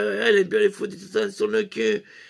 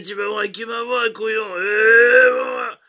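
shouted reply; 2 semitones higher, 5 dB louder than usual. Retold or imitated. Jojo shouts back at Tatane.

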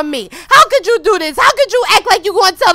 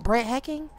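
ordinary delivery

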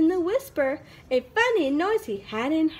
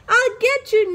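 threat; 8 semitones higher, 6 dB louder than usual. Acted. Owl threatening the noise.

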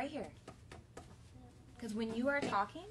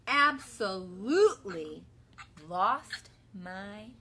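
worried cow; 6 dB louder, much slower than usual. Acted. Bella's lament read together.

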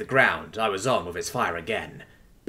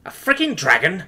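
high, incredulous inner outcry; mild mock scream; screamed thought; 7 semitones higher, 4 dB louder than usual. A narrator's reading. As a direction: exclaim it in disbelief, short of screaming. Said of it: "I screamed in my head".

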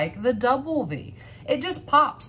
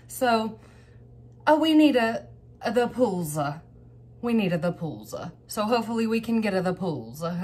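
a goofy, lightly altered voice; silly put-on voice. Excited collector talking to viewers about wanted cards, in a goofy put-on voice. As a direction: mumble the card name in a half-joking voice. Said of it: "I don't know why I'm talking like this".

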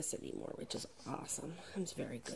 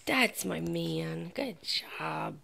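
slow, loud drawn-out praise; very slow loud dog praise; slow proud praise; 6 dB louder, much slower than usual. Real, not acted. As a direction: stretch it out proudly.

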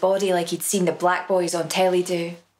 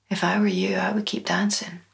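through clenched teeth. A narrator's reading. Mother urging son under her breath, through clenched teeth. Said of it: "she spoke through clenched teeth".

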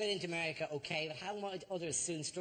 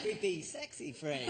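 imitating a creepy, sexy delivery; mock-seductive, rising into a breath on "sexy phrase"; 4 semitones higher, slower than usual. Host teasing the panellist's phrase, mock creepy and sexy. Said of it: "you put creepy and sexy together".

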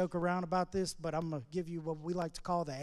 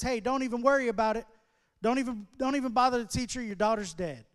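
urgent messenger; 4 semitones higher, 4 dB louder than usual. Retold or imitated. Messenger brings news of death.

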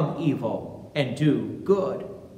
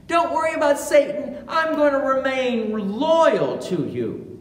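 fast, higher, mildly cocky reassurance; lightly brushing off the worry; overconfident Peter; 5 semitones higher than usual. Retold or imitated. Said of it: "He basically says to our Lord".

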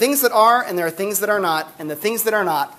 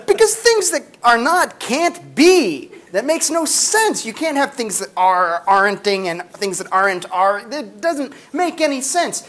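exasperated dad; 3 semitones higher than usual. Retold or imitated. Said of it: "And he goes".

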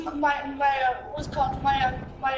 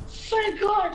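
relieved gasp; 4 semitones higher than usual. Real, not acted. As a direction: burst out in relief. Relief after max ammo.

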